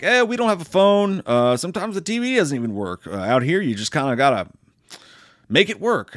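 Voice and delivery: lightly voiced high old folk; a hint of a creepy rural elder; creepy old couple. Elderly couple to a stranger, lightly voiced old folk. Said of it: "But they're like".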